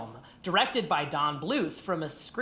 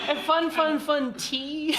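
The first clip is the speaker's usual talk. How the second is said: giggling through the words; laughing; 9 semitones higher, 3 dB louder, slower than usual. Real, not acted. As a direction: say it while laughing. Laughing at the title.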